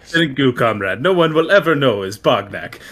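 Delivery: a hint of a Russian accent in a goblin's voice; mock Russian accent. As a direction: thank him like a sneaky Russian comrade. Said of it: "Now he's Russian?".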